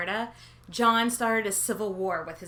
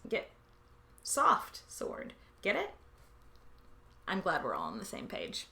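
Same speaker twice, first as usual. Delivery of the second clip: softer whispered dick-joke aside; 3 semitones lower, 7 dB quieter than usual. Acted. Sharing a dirty pun with viewers, whispered. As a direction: hush it like a naughty secret.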